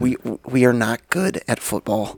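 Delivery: lightly mimicked dorky quarterback; a hint of a stiff, square talker; Kirk Cousins. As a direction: do a mild mocking impression of an athlete. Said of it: "He talks like this".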